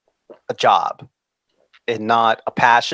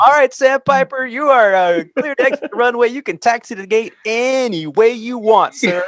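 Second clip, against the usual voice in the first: laughing controller voice, louder and higher; amused tower controller; 11 semitones higher, 5 dB louder than usual. Retold or imitated. Tower controller chuckling to a pilot, louder and higher. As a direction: play the tickled tower controller granting any taxi route. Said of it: "He was like".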